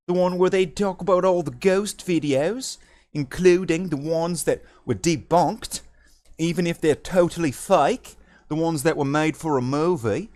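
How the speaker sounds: put-on a light, wandering Australian accent; mock Australian accent. Ranting to stream chat about ghost videos in Australian accent. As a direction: slip into a loose Aussie accent. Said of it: "I don't even know what accent I'm doing anymore".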